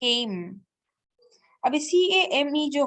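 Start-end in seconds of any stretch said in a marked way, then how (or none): 0.0-0.5 "came" with a drawn-out a and silent e; long vowel. Shown as a demonstration. Teacher demonstrating the silent e rule, "came" with long vowel. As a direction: stretch the a in "came". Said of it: "makes the vowel long".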